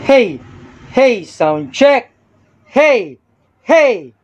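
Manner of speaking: high-pitched sound-check calls; shouting. Shown as a demonstration. Demonstrator testing mic feedback near the speaker, shouting. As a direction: call out "hey" high and sharp into the mic. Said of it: "sisigaw ako".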